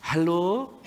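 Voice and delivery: a fond, lifted hello on the phone; eager sweetheart hello. Retold or imitated. Young lover answering the payphone call, fond and eager. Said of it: "waktu Anda pacaran zaman dulu".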